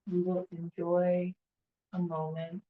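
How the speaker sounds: soft voice, trailing into quiet; hushed, with long pauses; guided meditation. Real, not acted. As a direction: ease them gently into the silence. Leads a standing meditation.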